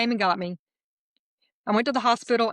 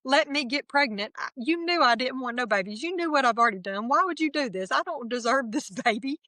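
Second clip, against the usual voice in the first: angry at God; 5 semitones higher than usual. Retold or imitated. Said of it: "shaking my fist and going".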